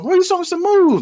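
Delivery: high-pitched stretched holler; mock shout over music. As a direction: keep hollering high after the music has stopped. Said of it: "they turn the music off".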